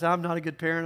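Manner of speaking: lightly voiced worried parent, weight on "I'm"; a hint of a guilty mom, leaning on "I'm"; self-blaming parent. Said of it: "those you guys who beat yourself up".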